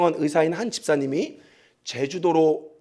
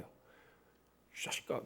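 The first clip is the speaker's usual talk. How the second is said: taxi drivers cursing; 8 dB quieter, slower than usual. Retold or imitated. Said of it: "이러는 거예요, 진짜".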